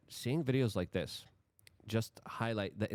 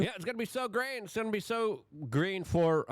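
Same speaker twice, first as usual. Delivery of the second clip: sarcastic; 10 semitones higher than usual. Pretend. Sarcastic reply to clip.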